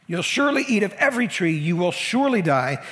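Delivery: "surely" punched each time; emphatic. Retold or imitated. Preacher repeating God's two commands, emphatic. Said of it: "God's being pretty emphatic".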